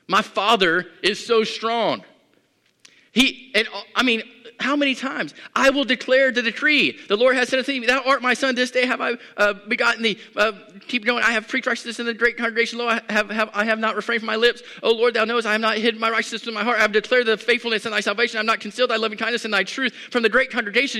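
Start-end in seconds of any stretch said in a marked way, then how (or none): 0.1-3.5 proclaiming. Shown as a demonstration. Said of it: "how often do we say". 5.6-21.0 full-force preaching. Acted. Preacher proclaims the psalm again to the congregation, fired up.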